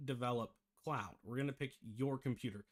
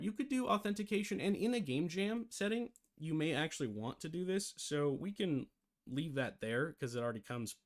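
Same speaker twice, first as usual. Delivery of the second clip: talking through hiccups; hiccuping between fast words; 3 semitones higher than usual. Real, not acted. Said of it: "I have the hiccups".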